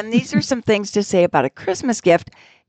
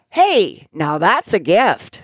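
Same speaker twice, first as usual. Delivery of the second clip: fake delight; 3 semitones lower, slower than usual. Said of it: "This might be helpful".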